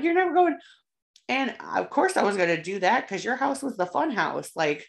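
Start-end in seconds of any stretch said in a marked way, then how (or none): 0.0-0.6 high, loud stern parent. Retold or imitated. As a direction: lay down the law as a parent. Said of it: "they'd be like".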